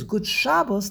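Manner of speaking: Good said as gut, Shabbos front-stressed; Yiddish greeting. Shown as a demonstration. Teacher quoting a Yiddish greeting, gut and front-stressed Shabbos. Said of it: "that's Yiddish".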